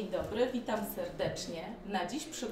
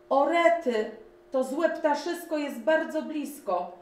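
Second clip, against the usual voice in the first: much higher, louder panicked cry; 8 semitones higher, 8 dB louder than usual. A narrator's reading. Fleeing the great bird, panicked cry. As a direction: cry out and run.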